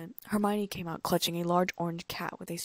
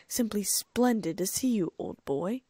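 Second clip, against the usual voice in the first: slow, louder mock-formal greeting; mock posh; 2 semitones higher, 6 dB louder, slower than usual. Fred teasing Harry, hammed-up slow stuffy greeting. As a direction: ham up a stuffy gentleman.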